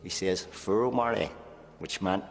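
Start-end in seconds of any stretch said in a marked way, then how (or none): 0.5-1.3 shouted through the pipe. Retold or imitated. Fellow prisoner shouting election news through the pipe, excited call. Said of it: "he started shouting here".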